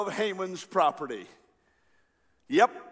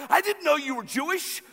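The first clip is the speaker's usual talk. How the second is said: higher-pitched, mildly panicked protest; acted terror, pitched up; mock terrified; 9 semitones higher, faster than usual. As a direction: plead as if caught out and scared. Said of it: "He's terrified".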